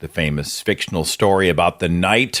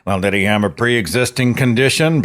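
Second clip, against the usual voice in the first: mocking quote; 2 semitones higher than usual. Mocking the dismissive people.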